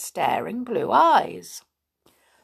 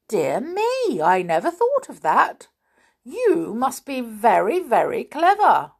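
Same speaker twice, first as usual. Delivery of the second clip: higher, louder dawning surprise; surprised; 6 semitones higher, 6 dB louder than usual. A narrator's reading. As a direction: marvel at the children. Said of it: "asked the big stupid in surprise".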